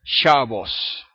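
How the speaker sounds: SHAbbos, stress on the first syllable; penultimate stress. Shown as a demonstration. Teacher showing the shifted stress to students. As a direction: lean on the SHA of Shabbos. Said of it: "cambia la acentuación y la hacen palabra llana".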